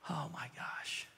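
a stunned, barely voiced gasp of words; awed whisper. Healed man whispers in amazement to himself. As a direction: breathe it out in a hushed whisper. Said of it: "one guy goes".

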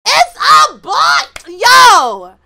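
high, slow, loud cry; loud dramatic letdown; dismayed outcry. Real, not acted. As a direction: wail it out in disbelief. Wanted a girl, gets boy.

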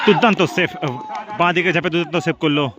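sudden excited commentator call; excited shout. Real, not acted. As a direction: burst out over the save. Commentator calls a great save.

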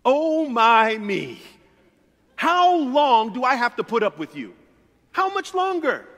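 loud, high exasperated groan; eye-rolling God. Retold or imitated. God rolling his eyes at us, loud exasperation. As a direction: sigh it out like you're fed up. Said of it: "he rolls his eyes and is like".

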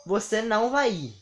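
imitated maternal threat; stern mother's warning. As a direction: forbid it like a stern mom. Mãe ameaça o filho, encenada.

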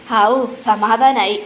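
slow, drawn-out phew; mock sigh of relief; acted relief. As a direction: let the worry out slowly. Retold sigh of relief, worry over.

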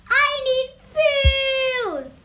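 high, loud, slow wail; hungry monster cry. A narrator's reading. Monster still hungry after eating the bicycle, wailing loudly. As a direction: call out a drawn-out ravenous demand.

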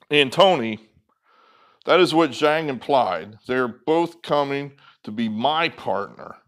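stumbling first pass at reading the text. Shown as a demonstration. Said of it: "I'm gonna read that again".

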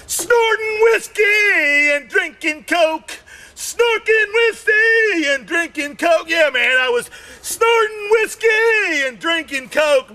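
high, crying-out party yell; excited shout. Retold or imitated. Comic yelling about his wild night.

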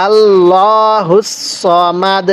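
আল্লাহুস সমাদ drawn out slowly; slow recitation. Shown as a demonstration. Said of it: "আরেকবার পড়ুন".

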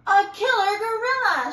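high, loud terrified squeak; squeaky fright. A narrator's reading. Mouse telling panda who chases her. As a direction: squeak out the danger. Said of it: "she squeaked".

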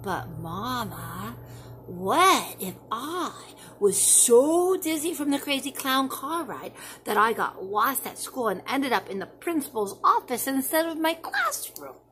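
put-on a child spinning what-ifs for mom; worried child. Child voice in story.

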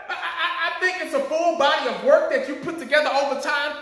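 stammered mocking retelling with a laugh; laughing parody of the coach's stammer; lightly mocking a fumbling coach; mocking quote. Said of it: "You talking about".

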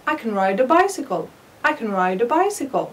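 can said weak and linked, kən; teacher models can as a light unstressed kən; weak form of can. Shown as a demonstration. Teacher shows students the weak can in a sentence. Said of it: "لم أشدد على كلمة كان ... نطقتها ضعيفة".

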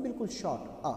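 شارټ آ with a short central uh sound; short u demo. Shown as a demonstration. Teacher shows the short u to students, quiet. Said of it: "بالکل سینټر اف ماوث نه موږ دا پرونونس کوو".

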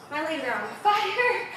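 slow and winded from jump squats; panting between words; out of breath. Real, not acted. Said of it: "Catch that breath for a second".

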